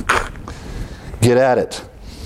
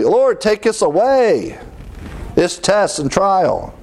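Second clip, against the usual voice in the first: pleading prayer; 8 semitones higher than usual. Retold or imitated.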